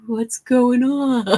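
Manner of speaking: high, drawn-out mock wail; mock bewilderment. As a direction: stretch it out in playful confusion. Voicing shared unease at calm.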